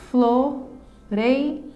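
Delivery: "Floreira" in three slow beats: flo, rei, ra; syllable by syllable. Shown as a demonstration. Teacher showing a three-syllable word, syllable by syllable. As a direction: pause after each syllable of "Floreira". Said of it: "trissílaba".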